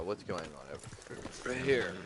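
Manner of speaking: words pushed out through a burp; burpy, gassy speech; talking while burping. Real, not acted. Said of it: "Sorry for the burps".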